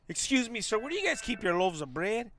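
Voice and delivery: mock-polite, proper shopper asking a stranger; overly polite customer. Shown as a demonstration. Showing how not to ask a cholo for bread, mock-polite. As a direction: play it stiff and courteous, the wrong way. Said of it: "You just can't walk up to him and be like".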